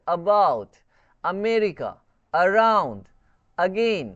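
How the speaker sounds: "about, अमेरिका, around, again" each opening on a light "uh"; unstressed schwa A. Shown as a demonstration. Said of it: "यहाँ पे अ का use करते हैं".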